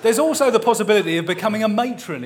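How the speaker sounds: barely holding it together through laughter; laughing. Real, not acted. Reader apologizing to listeners while laughing helplessly. Reader cracking up mid-reading.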